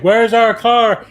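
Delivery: husband coming apart in panic, high and loud; panicked yell. Retold or imitated. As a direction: fall apart on it. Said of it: "I completely come apart".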